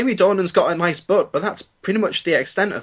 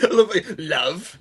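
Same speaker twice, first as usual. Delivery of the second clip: mimicked dismissiveness. Mimics his dismissive "love.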